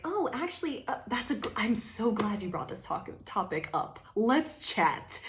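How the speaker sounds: high, sugary mock politeness on the oh; faux-cheerful welcome to a hostile topic; fake sweet cheer. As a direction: play it sweetly innocent to disarm them. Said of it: "you're over here like".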